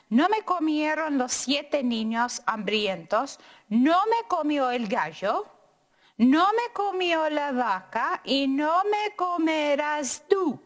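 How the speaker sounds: taunt, rising to a loud finish; defiant tortilla. Acted. Tortilla taunting the dog, building to a shout.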